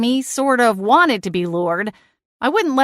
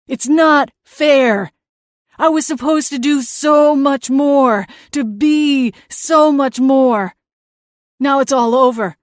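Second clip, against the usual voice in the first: whiny ghost brother; 3 semitones higher, 4 dB louder than usual. Acted. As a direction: sulk like a wronged little brother. Seth, ghost brother, whining.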